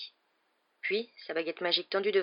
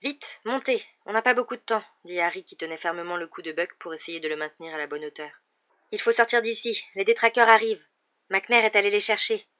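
urgent plea; 2 semitones higher, 6 dB louder than usual. Acted. Harry urging Sirius onto the hippogriff, loud and urgent. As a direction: press him to hurry.

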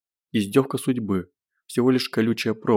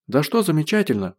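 higher angry outburst; exploding; 5 semitones higher than usual. Acted. Zhenya explodes at Gosh, higher angry outburst. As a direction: snap back, higher and sharp. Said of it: "взорвалась Женя".

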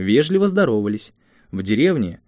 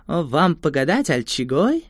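put-on little girl voice; 5 semitones higher, slower than usual. Little gypsy girl offers fortune.

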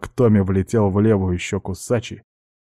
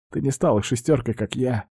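sad; 4 semitones higher than usual. Acted. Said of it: "с печалью ответил паренёк".

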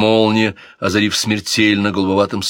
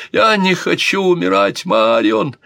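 high, loud cry of fear; 9 semitones higher, 4 dB louder than usual. Acted. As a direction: wail it like a drunk, frightened prince. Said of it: "закричал принц Альфонсо".

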